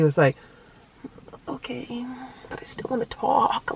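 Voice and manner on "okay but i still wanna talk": put-on small, higher child voice; imitated sulky little boy. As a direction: give in reluctantly in a tiny voice. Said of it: "like that".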